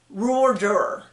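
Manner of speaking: "Roar Juror" slurred into one muddy growl of r's; "Roar Juror" with the middle sounds swallowed; mushed together. Shown as a demonstration. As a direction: run "Roar Juror" together so nobody can understand it. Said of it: "that is a mush".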